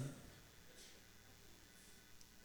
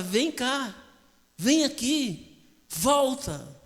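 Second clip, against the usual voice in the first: raised, drawn-out calling; calling back; 5 semitones higher, 3 dB louder, much slower than usual. Acted. God goes after the runaway and calls him, calling back. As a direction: call out to someone straying.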